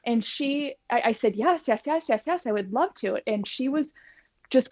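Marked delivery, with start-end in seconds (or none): 1.4-3.2 eager yes. Retold or imitated. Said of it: "I was so excited".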